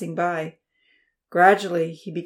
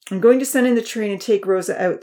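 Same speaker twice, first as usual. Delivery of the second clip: quick; 3 semitones higher, 6 dB louder than usual. A narrator's reading. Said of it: "the professor said quickly".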